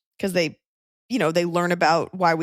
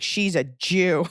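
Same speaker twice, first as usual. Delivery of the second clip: accusatory; much slower than usual. Retold or imitated. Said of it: "It's always a little accusatory".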